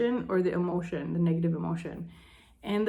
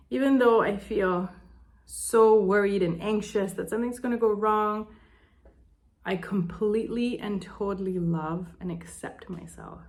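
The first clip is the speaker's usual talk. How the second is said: tapping affirmation. Shown as a demonstration. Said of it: "or whatever your problem is".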